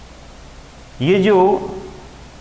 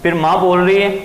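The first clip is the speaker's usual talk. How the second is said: normal talking voice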